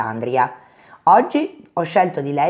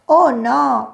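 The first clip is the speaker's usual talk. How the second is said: sudden fright at glowing eyes; alarmed gasp; 7 semitones higher than usual. Acted. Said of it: "pensò Coniglio".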